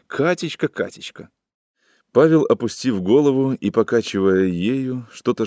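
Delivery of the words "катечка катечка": rising then whispered mock; mock his whisper, fading to breath; mocking mimicry. A narrator's reading. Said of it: "а тоже".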